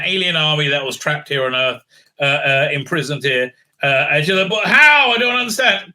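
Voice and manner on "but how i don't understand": mock bafflement. Woman voiced baffled.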